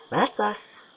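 breathy laugh through the words. Acted. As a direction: laugh as you say it. Shared joke on the pavement.

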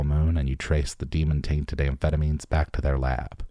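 measured game-introduction narration; dramatic book reading. A narrator's reading. Presenter reads gang the game's introduction, dramatic narration. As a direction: read it like a trailer, building through each list.

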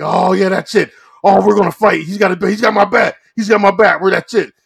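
high, loud wrestling hype; mock fight outrage. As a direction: shout like a staged brawl is kicking off. Acted wrestlers about to fight.

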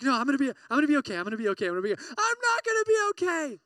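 fast, rising panicky babble; mock anxious self-talk. Imitates an anxious inner voice.

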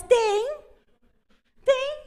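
high teasing "you do"; emphatic yes. Retold or imitated. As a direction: answer with a bright, insistent yes. Emphatic answer to mother's question.

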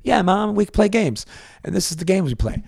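high-pitched mock child's voice; kid answering Mom. Child explaining the games to Mom, high kid voice. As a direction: play an earnest kid explaining to a parent.

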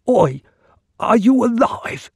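high, loud, dim-witted slave calling out; a simple slave gawping at a speared man, simpleton voice; simpleton's voice. Acted. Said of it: "he asked in a simpleton's voice".

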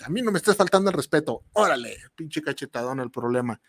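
mock telenovela slap line, fast; hammed-up soap-opera outburst; Eduardo Yáñez impression. Host mimicking Eduardo Yáñez slapping a problem, mock telenovela fury. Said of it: "como Eduardo Yáñez".

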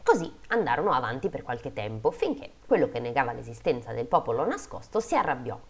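measured fairy-tale reading; story narration. A narrator's reading. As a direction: read it out like a storyteller. Reads a fairy tale aloud.

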